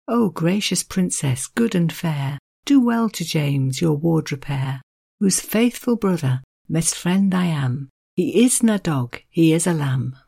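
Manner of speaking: measured, gently lifted verse reading; unhurried poetry reading; poem recital. Acted. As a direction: read the old Scots lines with care. Reads Dunbar's poem aloud.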